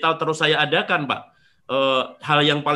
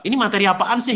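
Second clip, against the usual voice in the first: higher-pitched mock grumble; retold complaint; 7 semitones higher, 4 dB louder, faster than usual. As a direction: imitate a dismissive seminar attendee. Retold complaint from advanced attendee.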